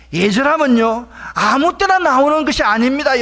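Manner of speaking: forceful preacher's cry; impassioned preaching. Real, not acted. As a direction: press the point hard on the congregation.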